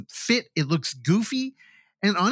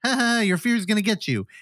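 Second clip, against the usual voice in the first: witch voice; 6 semitones higher than usual. Retold or imitated. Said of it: "a pixelated witch goes".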